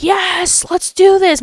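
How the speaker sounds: high-pitched eager yes; excited agreement. Retold or imitated. Reacting to friends' marriage plan, excited.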